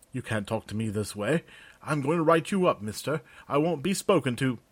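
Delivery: indignant clerk. Acted. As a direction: sputter with wounded pride. Jurgen protests to sergeant.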